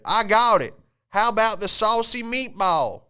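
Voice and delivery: high, loud proud pitch idea; pitching a dumb name, thrilled with it; excited manager. Pretend. Manager pitches the name in a meeting, high and excited. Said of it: "I bet that manager came up with it".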